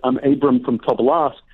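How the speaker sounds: light Russian Jewish accent on a retold introduction; slightly Russian Jewish-accented English. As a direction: imitate an immigrant grandfather's Russian Jewish accent. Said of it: "Russian Jewish accent".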